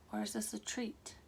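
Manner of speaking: whispered, breathy tease; teasing whisper. Acted. Reader teases viewers in a spooky whisper. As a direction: drop to a secretive whisper on treat.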